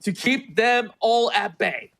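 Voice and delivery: high hyped play-by-play; esports caster. Real, not acted. Caster hypes the clutch.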